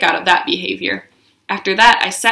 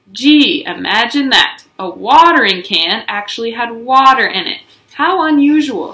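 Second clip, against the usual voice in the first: louder mock amazement; sarcastic; 3 semitones higher, 5 dB louder than usual. Mother scolding Junie, sarcastic. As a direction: lay the sarcasm on. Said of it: "That is called sarcastic".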